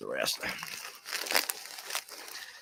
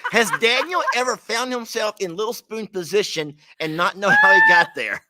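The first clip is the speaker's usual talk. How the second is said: laughing; 6 semitones higher, 4 dB louder than usual. Real, not acted. Laughing while asking.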